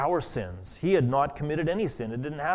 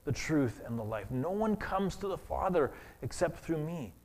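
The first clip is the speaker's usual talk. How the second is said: hushed quote of Jesus; 7 dB quieter than usual. Acted. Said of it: "Jesus said".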